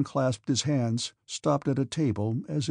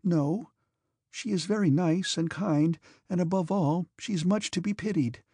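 put-on gentle young woman voice; 5 semitones higher than usual. Princess Mary speaking.

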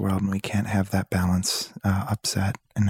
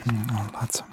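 whispering; 4 dB quieter than usual. Acted. Whispered ASMR podcast bit.

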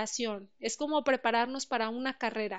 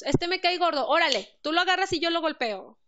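louder, higher mock macho outburst, rushed at the end; impulsive hothead; 4 semitones higher, 5 dB louder than usual. Speaker mimicking an impulsive Mexican picking a fight, loud and hasty. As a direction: play the brash guy itching for a fight. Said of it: "Muy, muy impulsivos".

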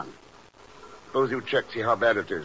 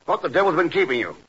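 raised, exasperated demand down the phone; louder, higher angry boss on the line; impatient scolding; 5 semitones higher, 3 dB louder than usual. Acted. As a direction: chew him out for being late. Boss scolds late agent on phone.

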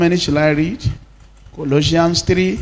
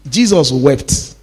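slow solemn; 5 semitones lower, slower than usual. Acted. Pastor reading the shortest verse to church, slow and solemn. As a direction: let the two words hang.

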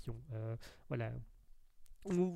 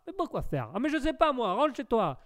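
higher, lightly hammed comic exchange; Les Inconnus sketch impression; 6 semitones higher than usual. Streamer replays a sketch dialogue, mock insistence. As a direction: mimic a looping sketch argument. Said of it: "c'est les inconnus".

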